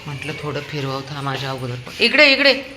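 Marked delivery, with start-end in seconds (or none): 2.0-2.6 high, loud call to come here; calling back. Real, not acted. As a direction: shout him back this way. (मोठ्याने परत बोलावणे)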